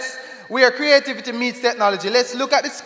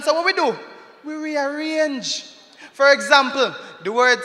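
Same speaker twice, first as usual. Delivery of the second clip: rhythmic spoken-word poem; poem recital; 3 semitones higher than usual. Acted. Performer recites a poem to the crowd, rhythmic.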